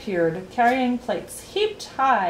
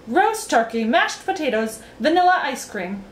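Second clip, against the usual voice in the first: higher-pitched recited list; reciting; 5 semitones higher, 3 dB louder than usual. A narrator's reading. Humbug giving his banquet speech, reciting. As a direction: recite each dish as its own announcement. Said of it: "recited the humbug".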